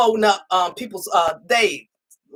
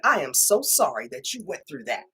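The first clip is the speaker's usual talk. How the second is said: lower, softer retold apology; appalled apology; 6 semitones lower, 5 dB quieter than usual. Supervisor apologizing to a mistreated caller, retold as appalled. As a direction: imitate a supervisor's hushed, appalled sympathy. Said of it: "she was so appalled".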